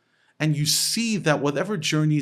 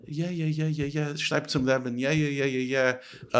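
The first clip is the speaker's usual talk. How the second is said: droning string of yeahs; mock rote reassurance; dismissive brush-off. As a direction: imitate a mentor who is barely engaged. Imitates a useless mentor brushing him off.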